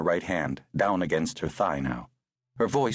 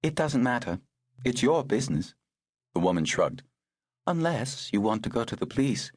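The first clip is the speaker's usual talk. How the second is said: higher, crisp voice for the woman; brisk older woman; 5 semitones higher than usual. Acted. Woman tending the girl in the rain, brisk and higher. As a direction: speak as the no-nonsense rescuer.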